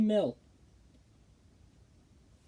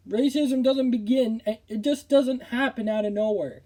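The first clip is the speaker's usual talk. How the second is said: real indignation; 4 semitones higher than usual. Real, not acted. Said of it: "I'm just so angry".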